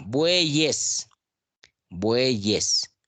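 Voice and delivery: "bueyes" spoken clearly as two syllables, bue-yes; clear pronunciation. Shown as a demonstration. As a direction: sound the y of "bueyes" as a consonant. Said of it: "Aquí está clarísima la pronunciación".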